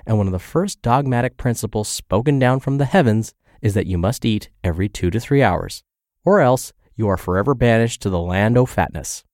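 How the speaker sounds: dry mock-solemn sarcasm; sarcastic. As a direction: deliver the rule with irony. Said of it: "Please note the sarcasm in my voice".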